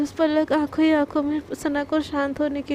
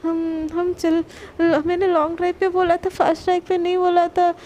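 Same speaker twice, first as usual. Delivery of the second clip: panicked plea; 3 semitones higher than usual. Retold or imitated. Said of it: "पलक उस डर घबरा जाती है".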